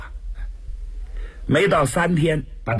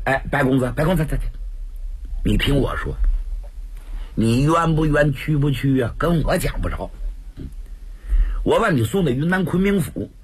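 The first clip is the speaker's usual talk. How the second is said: lightly voiced jolly constable, half scolding, half soothing; cheerful coaxing officer. The escort officer talks the prisoner round, a light genial coaxing. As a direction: coax him along with easy good humour. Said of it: "孙亮乐呵呵过来了".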